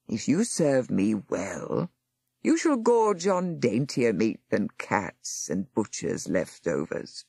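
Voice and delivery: low, slow voice promising a reward to a beast; menacing master. Acted. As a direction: lure the monster with a slow, low voice. Monster master speaking to monster.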